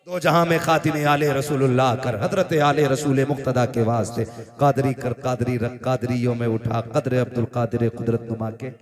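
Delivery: low, even recitation in a steady metre; devotional verse recitation. Acted. Preacher reciting a supplication to the congregation, devotional verse recitation. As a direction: intone the supplication line by line, low and measured.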